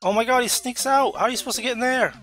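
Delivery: high-pitched, astonished protest; shocked disbelief. Real, not acted. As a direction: react in shocked outrage. Shocked at enemy move.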